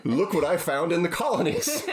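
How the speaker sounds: high-pitched, laughing English colonial; hammed-up English explorer; mock English accent. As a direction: show off a find to the queen in mock-English. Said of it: "it's the Canadian and the Englishman in me".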